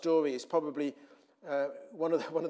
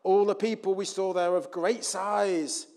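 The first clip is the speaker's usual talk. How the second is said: alarmed report; 3 semitones higher, 7 dB louder than usual. Acted. Acting spies' alarmed bad report.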